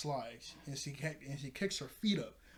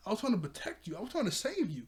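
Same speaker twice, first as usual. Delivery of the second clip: pitched-up mock pleading; retold protest; 6 semitones higher, faster than usual. She defends breaking her promise to Org, in rising mock protest. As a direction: imitate someone defending herself, voice climbing.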